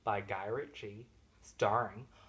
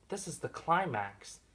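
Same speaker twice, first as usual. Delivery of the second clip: slightly lifted, expectant realisation; a touch of excitement; mild anticipation; 4 semitones higher than usual. Retold or imitated. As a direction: think the big moment has arrived. First of escalating false climaxes.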